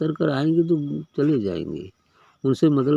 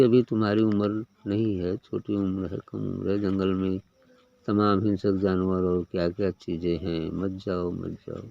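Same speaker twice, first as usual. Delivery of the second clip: put-on sage coaxing the child; 4 semitones lower, 3 dB quieter than usual. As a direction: lower and softer, fading to a hush. Sage persuading child to return. (धीमे, नीचे स्वर में समझाना)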